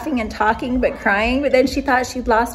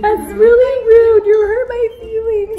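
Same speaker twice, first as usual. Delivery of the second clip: mock upset scolding, pitched way up; imitated mad complaint; 12 semitones higher, 10 dB louder than usual. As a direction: act out a hurt, tearful telling-off. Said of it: "it made her mad and she was like".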